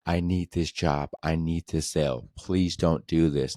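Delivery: slow, understated imitation of begging; retold begging. Salesman on his knees begging for the sale, mildly imitated. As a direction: slowly mimic a plea, one short sentence at a time. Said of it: "begging for us".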